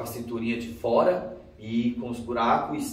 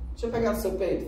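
put-on high, boyish pleading; a kid begging, voiced high; lightly voiced teenage boy nagging; pushy boy; 8 semitones higher, much faster than usual. Boy asking to grab her.

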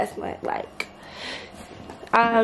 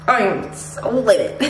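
contained anger, leaning on "so"; livid. Real, not acted. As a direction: seethe it out without raising the pitch.

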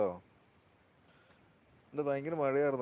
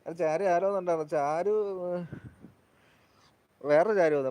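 louder and quicker, eager telling; excited report; 4 semitones higher, 10 dB louder than usual. Real, not acted. Streamer telling viewers eagerly that Charu visited. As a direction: rush it out louder, eager news.

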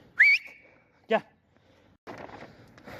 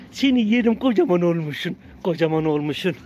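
fond cooing; 7 dB louder than usual. Real, not acted. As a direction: gush over the puppy. Cooing at a grown puppy.

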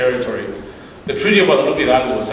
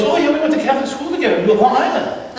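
chuckling priest; 11 semitones higher than usual. Retold or imitated. Priest chuckling about O'Reilly.

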